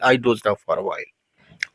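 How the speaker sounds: a slow, final model take for learners; slow soft model sentence. Shown as a demonstration. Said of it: "तो". (धीमे, नीचे स्वर में दोहराया वाक्य)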